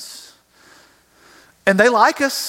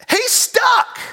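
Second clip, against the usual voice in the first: shouted punchline. Acted. Brer Rabbit stuck in tar.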